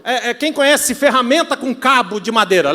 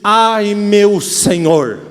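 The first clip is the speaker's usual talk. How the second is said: very slow, loud, drawn-out lament; anguished cry; 5 dB louder, much slower than usual. Acted. Man in pain turns to his Lord, crying out in anguish. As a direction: stretch out the cry of woe. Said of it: "mas ele continua e diz".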